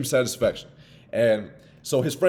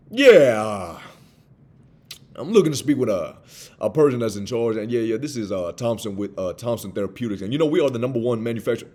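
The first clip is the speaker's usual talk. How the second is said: a hint of a hesitant salesman droning; mock the bad sales pitch; rambling cold caller; 4 dB louder than usual. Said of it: "do not go".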